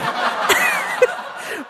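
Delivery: a high, airy burst of laughter. Real, not acted. Cracking up at bragging about the music industry. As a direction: laugh up high at your own nerve. Laughs at own bold line.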